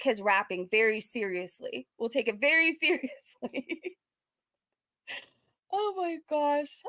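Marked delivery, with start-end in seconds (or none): 5.7-6.8 drawn-out disbelief. Real, not acted. Reacting in disbelief.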